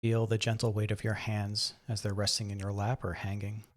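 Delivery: guided meditation. Acted. Guide helps listeners settle into the chair and breathe, calm meditation voice. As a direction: gently talk them into relaxing.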